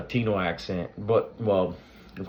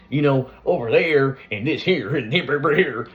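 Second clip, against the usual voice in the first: loud, higher mock redneck twang; redneck accent; 7 semitones higher, 8 dB louder than usual. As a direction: imitate wrestlers' stock redneck Southern accent. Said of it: "they always did the redneck".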